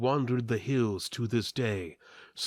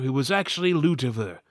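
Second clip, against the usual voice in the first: ordinary delivery, nothing marked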